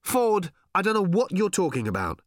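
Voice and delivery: high-pitched, baffled protest; bewildered story character. Acted. Character telling Ford they don't understand, high and bewildered. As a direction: voice a confused character, pitched well up.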